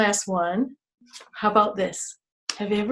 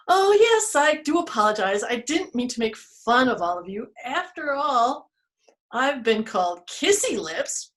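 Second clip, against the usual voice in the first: lightly voiced tree; 3 semitones higher than usual. Tree apologizes to friends.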